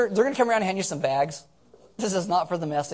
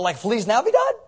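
higher, exasperated retold question; put-upon, pitched-up query; irritated question; 4 semitones higher, 4 dB louder than usual. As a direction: ask it with mock irritation. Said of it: "I'm all, like, irritated".

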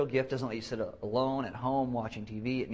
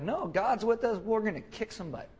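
high-pitched rallying retort; rally the doubters with eager certainty; lightly acted fighting spirit; mock bold confidence; 8 semitones higher than usual. Voices confident Joshua and Caleb.

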